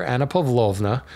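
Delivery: Russian-style Pavlovna with a long O; light Russian accent on the name. Shown as a demonstration. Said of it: "that was my best Russian accent".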